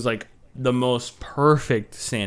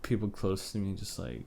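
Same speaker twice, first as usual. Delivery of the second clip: creepy quiet delivery; 4 semitones lower, 14 dB quieter than usual. Acted. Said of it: "can you stop talking like that".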